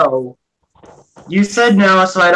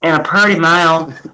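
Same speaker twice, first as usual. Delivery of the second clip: true Southern accent; 3 semitones lower than usual. Shown as a demonstration. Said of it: "true southern".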